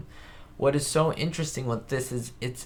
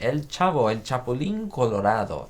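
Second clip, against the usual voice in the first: names said with a real Spanish accent; native Spanish pronunciation; 3 semitones higher than usual. Shown as a demonstration. Streamer shows chat his real Spanish accent on the names. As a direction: roll it out properly in Spanish. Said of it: "You love my Spanish accent?".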